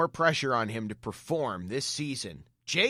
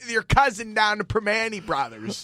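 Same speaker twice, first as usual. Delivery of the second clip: put-on Pittsburgh accent; 5 semitones higher than usual. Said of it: "you sounded very uneducated".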